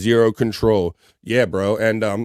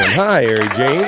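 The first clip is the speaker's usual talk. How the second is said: calling out; slower than usual. Real, not acted. Greeting a chatter on stream.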